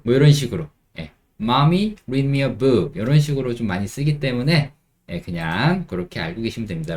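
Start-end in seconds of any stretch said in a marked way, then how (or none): 1.4-3.0 put-on child asking. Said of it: "아이들이 하는 말의 느낌".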